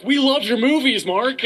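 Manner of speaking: high-pitched gushing parents; starstruck. Retold or imitated. Parents meeting a movie star, starstruck. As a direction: gush like a fan meeting a star.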